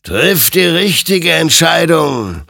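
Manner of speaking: high, forceful warning; loud admonishing. A narrator's reading. Apparition admonishes the soldier, high and loud. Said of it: "ermahnte ihn sein Gegenüber".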